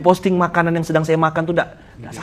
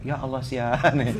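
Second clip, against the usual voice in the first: usual speaking voice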